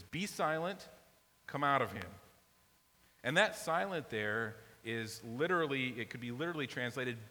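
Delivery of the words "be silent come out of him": Jesus's command snapped out, louder; harsh rebuke. Shown as a demonstration. Jesus commanding the unclean spirit to leave, harsh rebuke. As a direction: rebuke the demon sharply. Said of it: "It's really kind of harsh".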